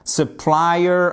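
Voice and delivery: "Supplier" stressed on PLI; stress second syllable. Shown as a demonstration. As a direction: model suh-PLI-er for "Supplier". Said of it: "la deuxième syllabe".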